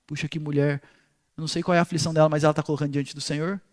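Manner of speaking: voz baixa e grave, com compaixão; compaixão imaginada. Retold or imitated. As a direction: comente baixinho, como quem se compadece. Compaixão imaginada de Eli pela mulher. (compaixão em voz baixa)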